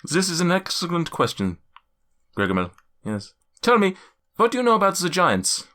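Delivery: lightly put-on German accent, measured. Giant NPC quizzing the party, light German accent. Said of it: "crampy German accent".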